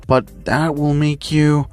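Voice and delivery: mildly stunned, halting and restarting; shocked. Acted. Nezu working out her age from the ID, mildly shocked. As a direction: stammer the start in disbelief, slowing at the end. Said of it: "glancing at the I D in shock".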